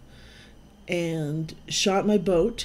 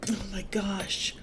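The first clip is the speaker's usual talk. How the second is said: breathless whispered shock; 2 semitones higher, 5 dB quieter than usual. Real, not acted. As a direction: whisper it in disbelief. After losing the boat.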